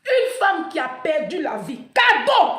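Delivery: loud rising outrage peaking on cadeau; indignant outcry. Real, not acted. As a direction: cry out against the injustice. Indignation sur la mort. (cri d'indignation)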